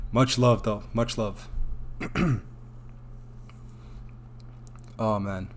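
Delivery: soft, choked-up thanks with long pauses; emotional. Real, not acted. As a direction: overcome by gratitude, sighing between quiet words. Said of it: "you guys like making me emotional".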